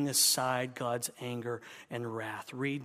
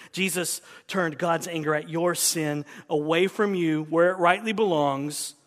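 louder, driving the phrase; building emphasis; 7 dB louder than usual. Real, not acted. Preacher building emphasis for the congregation. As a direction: press it home with force.

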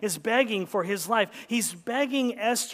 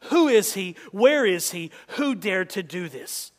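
furious king; 5 dB louder than usual. Acted. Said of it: "is what King Ahasuerus says".

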